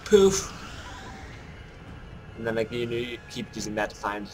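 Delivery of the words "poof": quick high-pitched "poof"; light, high little exclamation; playful poof. Real, not acted. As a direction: pop it out as the target bursts. Gleeful kill in game.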